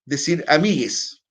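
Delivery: amigues drawn out slowly as the wrong word; wrong form. Shown as a demonstration. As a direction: set apart amigues as the incorrect form. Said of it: "Pero está mal dicho". (pronunciado como forma incorrecta)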